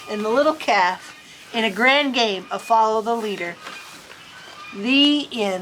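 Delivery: lively read-aloud storytelling; story narration. A narrator's reading. Reader telling a storybook to children, lively storytelling. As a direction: read it like a picture book to kids. Reads picture book ending.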